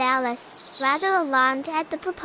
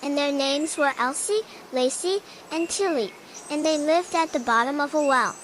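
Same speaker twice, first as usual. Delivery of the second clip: rushed, fast telling; hurried. Acted. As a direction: hurry through the words. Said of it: "began in a great hurry".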